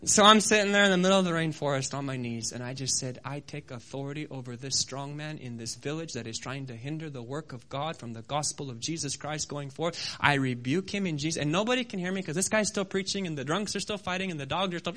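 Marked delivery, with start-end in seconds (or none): 3.2-11.4 low, soft retold rebuke; real quiet prayer. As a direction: pray it under your breath, calmly firm. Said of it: "real quietly".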